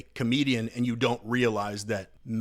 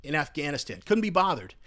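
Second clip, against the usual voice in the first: angry outburst; 3 semitones higher than usual. Real, not acted. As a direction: let the anger boil over. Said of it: "Sorry for that little outburst".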